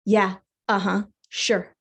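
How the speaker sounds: dry, skeptical little voice inside; doubting inner voice. Acted. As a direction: humor it without believing a word. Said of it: "this little voice inside would say".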